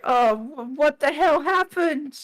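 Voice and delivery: high, slow, squeaky little rock voice; high pebble creature voice. Acted. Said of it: "it doesn't do the high pitch".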